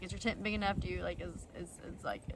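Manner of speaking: hesitant question. Retold or imitated. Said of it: "I was like".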